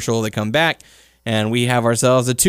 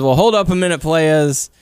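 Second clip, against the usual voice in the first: lightly voiced Teddy Long announcing; a hint of Teddy Long calling to the players; playful imitation of a wrestling GM; 4 semitones higher than usual. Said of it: "Teddy Long comes out, says".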